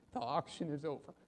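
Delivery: soft, subdued announcement; quiet finality. Acted. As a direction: close the matter softly. Auctioneer quietly apologises and closes.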